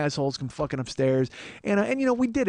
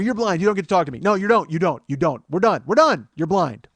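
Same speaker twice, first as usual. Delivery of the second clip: higher, insistent, hammering the word blind; blunt repeated retort; 3 semitones higher, 6 dB louder than usual. Retold or imitated. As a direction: keep cutting the heckler off. Shouting down blind heckler.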